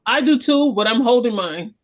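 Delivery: laughing. Real, not acted. Joking about talking with hands.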